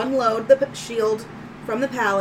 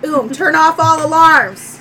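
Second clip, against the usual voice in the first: higher, much louder order; loud command; 4 semitones higher, 10 dB louder than usual. Acted. Owner ordering new droid to act, loud command. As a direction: issue it like a voice command.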